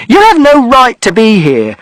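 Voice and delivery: high, loud, furious mother; shrieking at him to leave; mother shouting. A narrator's reading. Mother shouting at father that he has no right, furious. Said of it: "And mother shouted".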